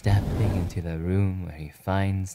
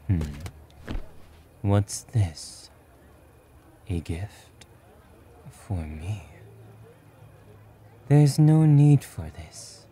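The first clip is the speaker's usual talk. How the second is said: reserved male character. Acted. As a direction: gently wave the concern away, hushed.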